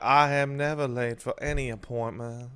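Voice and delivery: lightly drawled Southern Belle voice; a hint of a Southern Belle, prim; mild Southern Belle impression; Southern Belle accent. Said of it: "In a Southern Belle accent".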